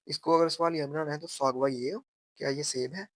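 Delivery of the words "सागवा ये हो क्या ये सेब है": "सागवा ये हो" with हो lifted into a question; change the tone so it asks; teacher shows the question tune; rising question tune. Shown as a demonstration. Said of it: "लहजा अपना change जो है करना है".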